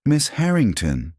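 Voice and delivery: high-pitched disbelieving repeat; stunned echo. A narrator's reading. Marcus learning who Elena is, stunned echo. Marcus echoes the name, eyes widened.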